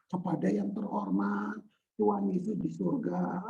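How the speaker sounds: soft, subdued formal recital; over-reverent, fearful. Acted. Preacher mimicking people too afraid in prayer, stiffly reverent. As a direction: intone it timidly like a formal letter. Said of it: "saking takutnya".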